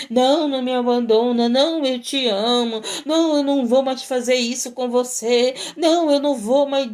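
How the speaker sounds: imitating a crying deceiver's pleas; lightly hammed-up begging and promising; mock tearful pleading. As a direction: plead with put-on crocodile tears. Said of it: "essa pessoa que tá chorando".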